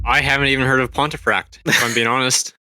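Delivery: odd costume voice; silly put-on character voice. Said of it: "you're not down with the voice?".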